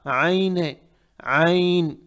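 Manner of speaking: आइन with the ayn drawn from deep in the throat; ayn from deep inside. Shown as a demonstration. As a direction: pull the first sound of आइन from inside the throat. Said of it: "अंदर से निकालना है".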